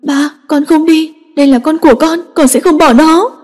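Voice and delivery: cling to her refusal in panic; panicked plea. A narrator's reading. Daughter refusing her father's order, panicked and pleading. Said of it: "Kha Nhi hốt hoảng".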